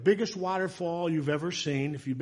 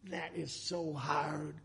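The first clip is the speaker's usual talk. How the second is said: slow, soft and heartfelt; hushed admission; 9 dB quieter, slower than usual. Real, not acted. Preacher admitting focus on the Lord is hard, hushed.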